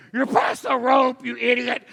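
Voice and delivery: loud, high, drawn-out yell; exasperated shout. Retold or imitated. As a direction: yell out to a swimmer far off. Lifeguard yelling at distant swimmer.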